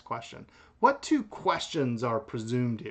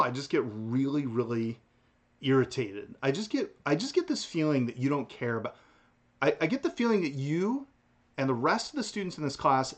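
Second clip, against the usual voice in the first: mock irritation. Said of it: "maybe some of you got a little agitated".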